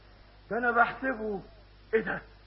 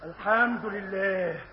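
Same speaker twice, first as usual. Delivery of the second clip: relieved sigh; 4 semitones lower, 5 dB quieter, slower than usual. Acted.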